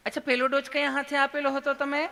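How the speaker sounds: high, put-on nurse voice; sweet, loving nurse. Nurse checking the patient's doses, high and sweet. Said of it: "તમે કેટલું પ્રેમથી પૂછો છો".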